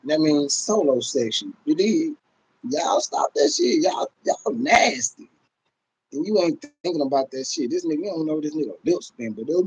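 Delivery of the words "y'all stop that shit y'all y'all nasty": slow, drawn-out disgust; disgusted scolding. Real, not acted. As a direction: stretch it out like it grosses you out. Scolding viewers about sharing joints.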